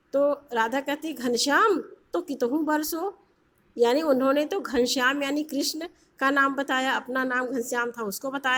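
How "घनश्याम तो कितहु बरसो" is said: a light, mocking jab, pitched a little up; sarcastic. Radha mocking Krishna at her door, lightly sarcastic. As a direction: tease him lightly with the pun. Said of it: "व्यंग में कहा कि".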